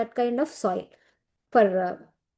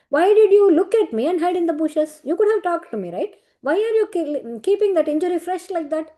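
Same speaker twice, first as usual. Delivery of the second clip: higher, concerned questioning as the boar god, lightly voiced; a god asking his wounded other half what happened, pitched up; astonished Varaha Swami; 4 semitones higher than usual. Varaha keeps questioning Srinivasa.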